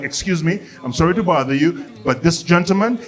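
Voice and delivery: lightly voiced courteous flight attendant; customer service mode. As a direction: apologise with careful customer-service politeness. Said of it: "has to be in customer service mode".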